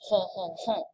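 Hon, hon, hon as a playful nasal caricature; mock French nasal. Shown as a demonstration. Teacher joking about the French nasal sound. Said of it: "Get that French nasal sound going".

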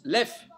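"Lef" said as the tail of Aleph, without the A; "Lef" as one separate syllable; sounded-out letter name. Shown as a demonstration. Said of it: "On prononce".

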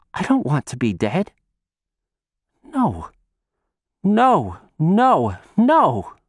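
acted distress, rising from stunned questions to wailed refusals; upset crying plea. A narrator's reading. Shun learns he is dead, acted tearful protest. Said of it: "Shun cried".

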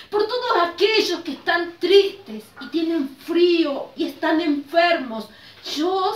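put-on earnest lead-along prayer for children; children's prayer. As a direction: pray simply, leaving room to repeat.

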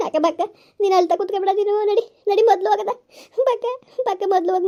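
fast, tearful pleading; a touch of crying; tearful urging. Acted. Friend urging the weeping woman to hurry, tearful.

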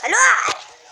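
insistent prompt. Real, not acted. Telling the little sister to greet viewers, insistent call. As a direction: prod someone to say hello.

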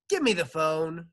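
high, loud demand; shouted order. Acted. Dentist demands the receptionist's phone, shouting. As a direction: bark for the phone. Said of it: "shouted Doctor Payne".

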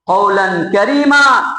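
কওলান কারীমা drawn out slowly, each syllable weighed; slow emphasis. Shown as a demonstration. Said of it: "একদম নরম ভাষায়". (কওলান কারীমা ধীরে ধীরে টেনে জোর দিয়ে)

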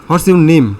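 teacher's firm falling question; teacher asking. Shown as a demonstration. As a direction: ask it like a teacher, firm and loud. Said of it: "suppose আপনাকে teacher বলছে".

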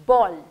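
बॉल loud with punched b and rounded o vowel; model pronunciation. Shown as a demonstration. Teacher modelling a B word, emphatic pronunciation. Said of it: "ब sound".

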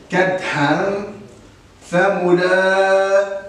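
drawn-out recitation with hidden noon; slow recitation. Shown as a demonstration. Teacher reciting the second verse slowly for pupils. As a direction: stretch the words slowly to show the ghunna. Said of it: "لاحظوا معي الآية الثانية".

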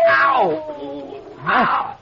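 sudden high loud cries of pain; yelps of pain. Acted. Mayor yelling as a creature runs over them. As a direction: yell as something tramples you. Attacked in the dark.

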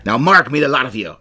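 lightly voiced pirate captain. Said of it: "I'm gonna do a pirate voice".

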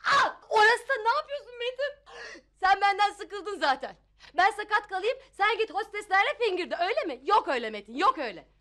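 half-laughing, half-crying rant; wife getting worked up at her husband; hysterical outburst. Acted. Wife during a massage snapping at her husband, worked-up rant. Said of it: "Ürperi, sakinleş karıcığım".

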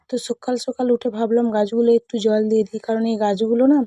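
toothbrush in mouth; while brushing teeth. Real, not acted. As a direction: speak with a brush in your mouth. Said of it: "brush করতে করতে".

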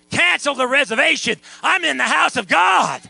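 high, loud pulpit cry; rousing preacher's shout; fired-up preaching. Real, not acted. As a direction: proclaim it to the whole room. Preacher exhorting, rousing the congregation.

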